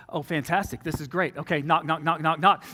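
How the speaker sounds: low, deadpan mock delight; sarcastic resignation. Man finding girlfriend snuggling with her ex, sarcastic resignation. Reacts to seeing the couple.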